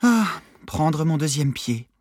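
slow, fake-wistful sigh; hammed-up longing, drawn out; mock nostalgia. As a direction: play at being nostalgic, slowly. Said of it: "prit un air faussement nostalgique".

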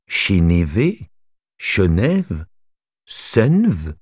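Chinive tried as Chénévé, Chenève, Senve; slow, testing each way to say Chinive; trying pronunciations. Shown as a demonstration. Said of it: "Comment prononcer Chinive?".

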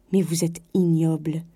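angry, held-down condemnation; cold outrage. A narrator's reading. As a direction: pronounce it with contained disgust. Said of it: "colère nouvelle".

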